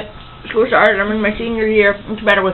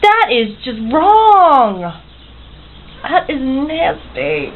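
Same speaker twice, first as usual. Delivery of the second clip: disgusted; 5 semitones higher, much slower than usual. Real, not acted. Disgusted at the pickle snack.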